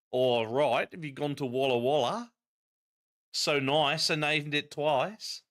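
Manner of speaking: a light Australian twang on Walla Walla; lightly Australian, chatty and cheerful; slight Australian accent. Acted. To viewers, musing on Walla Walla in light Australian accent. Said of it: "put a slight Australian accent to it".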